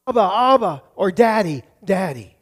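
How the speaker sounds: lightly voiced little kid calling Dad; mild imitation of a child running to Daddy. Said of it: "run to him and go".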